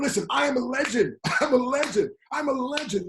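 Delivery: self-hype chant; hyped affirmation. Shown as a demonstration. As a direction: pump yourself up, declaring it. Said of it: "So start saying".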